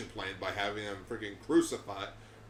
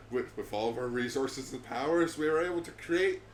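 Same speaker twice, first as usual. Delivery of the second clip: villain boast; 3 semitones higher, 4 dB louder than usual. Retold or imitated.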